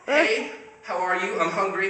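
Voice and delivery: high, loud, slow silly dog voice; dog's voice. Retold or imitated. Owner voicing his hungry dog in a goofy high voice. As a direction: play the dog announcing its hunger.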